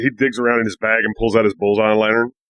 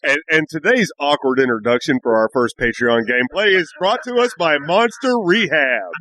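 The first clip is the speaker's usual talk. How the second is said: mock sponsor read. Mock sponsor read during the game.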